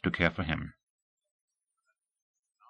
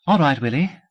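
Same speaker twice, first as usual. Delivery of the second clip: bright and sprightly; 5 semitones higher, 4 dB louder than usual. A narrator's reading. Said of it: "her voice bright and sprightly".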